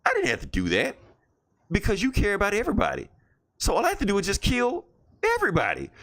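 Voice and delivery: hammed-up comic-book villain menace; gloating villain. Red Goblin gloating at Spider-Man, mock villain voice.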